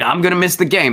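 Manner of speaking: put-on indignant whine; whiny protest. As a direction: imitate an entitled man pleading his case. Retold argument, truck owner protesting.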